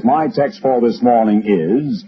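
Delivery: slow, lightly mimicked preacher. Preacher opens his text for the morning, lightly imitated, slow. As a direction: announce the text slowly, a touch of pulpit manner. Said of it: "then the preacher says".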